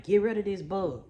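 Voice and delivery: loud, slowed-down yelled order at her son; retold yelling. Mother re-enacts yelling at her son over a water bug, loud and insistent. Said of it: "So I'm screaming at him".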